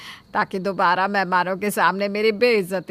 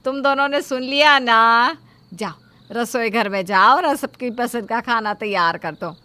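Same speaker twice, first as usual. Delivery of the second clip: bossy order; 2 semitones higher, 6 dB louder than usual. Acted. Mother-in-law ordering both daughters-in-law to cook, loud.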